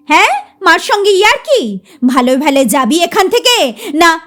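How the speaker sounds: quick indignant scold; fast scolding. Acted. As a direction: rattle off the scolding. (দ্রুত ধমক)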